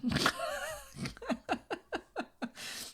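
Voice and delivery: long, high-pitched laughing fit. Real, not acted. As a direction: let the laugh ride up high. Laughs after mock quote.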